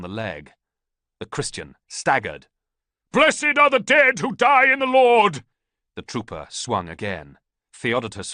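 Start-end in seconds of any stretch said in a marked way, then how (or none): 3.1-5.4 very high, loud, slow exultant cry; ecstatic cry. A narrator's reading. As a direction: cry out in rapture as he falls. Wounded priest cries out.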